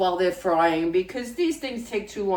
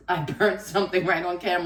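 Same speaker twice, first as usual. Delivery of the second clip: laughing; faster than usual. Real, not acted. Laughing at her burnt pan.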